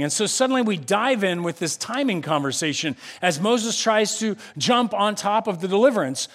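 ordinary delivery

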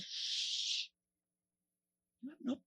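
a breathy shush with no voice; hushing. Retold or imitated. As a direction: hush him quickly. Hushing the friend on the roof.

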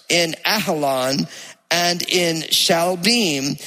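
measured, solemn Bible reading; scripture reading. Acted. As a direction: read it aloud like scripture.

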